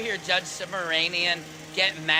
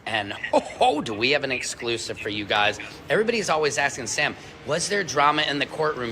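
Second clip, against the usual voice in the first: hammed-up TV reporter voice, a bit lower; reporter character; 4 semitones lower than usual. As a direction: play a hyped courthouse field reporter. Comedian plays reporter character.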